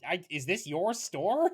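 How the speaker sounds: a hint of a nervous nerd; timid nerd kid. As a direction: ask it hesitantly, a bit high. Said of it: "the nerd kid is like".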